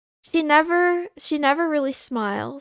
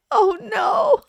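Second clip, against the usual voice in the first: high, louder yelp of dismay; 9 semitones higher, 4 dB louder than usual. Real, not acted. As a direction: cry out as the tears threaten. About to cry on stream.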